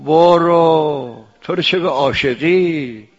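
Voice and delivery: scolding beloved. Retold or imitated. Beloved scolds the lover who slept, mildly mocking. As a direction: scold him with a stretched-out "برو".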